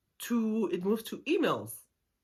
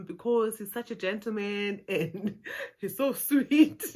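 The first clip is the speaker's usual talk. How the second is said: laughing gush; 4 semitones higher than usual. Retold or imitated. Friend gushing about the guy.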